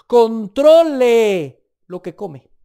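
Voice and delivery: loud, slow, drawn-out command; preacher booming the rule, slow; stern command. Acted. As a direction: hammer the warning home.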